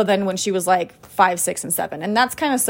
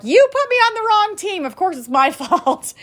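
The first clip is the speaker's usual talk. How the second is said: put-on higher, whiny kid voice blaming mom; daughter's complaint; 10 semitones higher than usual. Daughter blames mom for the wrong team, whiny kid voice. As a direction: play the aggrieved kid blaming her mom. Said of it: "the first thing she said is like".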